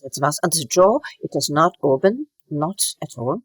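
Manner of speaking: choppy, closed-jaw German accent; German-accented English kept inside the mouth. Shown as a demonstration. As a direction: chop the words in a German accent. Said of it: "relatively choppy like this".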